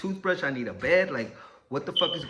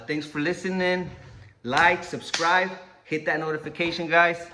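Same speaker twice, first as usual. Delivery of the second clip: hyped outro; 4 semitones higher, 6 dB louder than usual. Real, not acted. Outro call to viewers.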